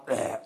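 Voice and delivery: short, low belch noise; imitated burp. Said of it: "er rübst, ja, so richtig laut". (nachgemachter Rülpser)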